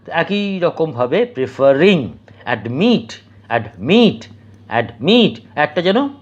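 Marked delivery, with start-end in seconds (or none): 2.4-5.4 অ্যাডমিট with অ্যাড just touched, মিট stressed; অ্যাডমিট, tiny gap before strong মিট; stress on last syllable. Shown as a demonstration. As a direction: brush past অ্যাড and land on মিট in অ্যাডমিট. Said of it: "just ছুঁয়ে চলে যাচ্ছি".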